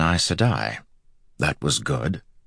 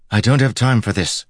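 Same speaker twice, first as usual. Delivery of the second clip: high, impatient character voice; cutting him off; 7 semitones higher, 4 dB louder than usual. A narrator's reading. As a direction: cut in and dismiss him. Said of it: "Egwene cut him off".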